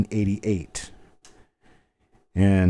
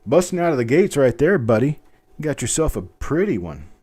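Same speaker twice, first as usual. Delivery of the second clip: loud, higher cheer for the buyer; excited; 6 semitones higher, 4 dB louder than usual. Real, not acted. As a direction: whoop it up like the gates just opened.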